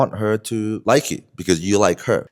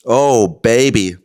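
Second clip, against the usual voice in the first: slow, louder and higher, a hammed-up suave croon; mock smooth talk; 4 semitones higher, 7 dB louder, slower than usual. Retainer out, he jokes he'll talk smoother, mock suave. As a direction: play the smooth operator as a joke. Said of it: "I'm about to talk a lot smoother".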